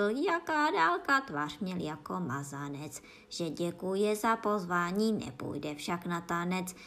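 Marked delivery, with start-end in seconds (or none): 0.0-1.2 high, slow sceptical snail; a hint of the snail, higher and louder; snail's reply. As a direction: ask it doubtfully, drawn out. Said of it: "Šnek však řekl".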